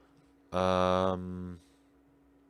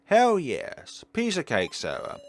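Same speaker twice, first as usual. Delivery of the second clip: excited cheer; 7 semitones higher, 6 dB louder than usual. Acted. Cheerful win in game.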